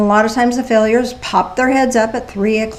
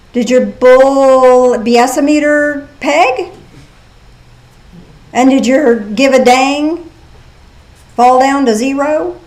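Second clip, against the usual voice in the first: put-on Southern accent; slower than usual. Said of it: "Had to get the Southern accent in there".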